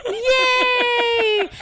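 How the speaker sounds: high, laughing cheery yay; mock chirpy yay. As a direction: chirp it like a happy kid.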